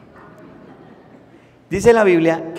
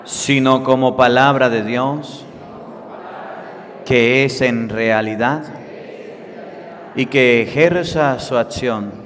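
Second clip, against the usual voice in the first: slow, loud prayer for the congregation to repeat; call-and-response prayer, slow and solemn; leading a prayer; 3 dB louder, slower than usual. Acted. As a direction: pray aloud line by line, slowly. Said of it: "Digan todos después de mí".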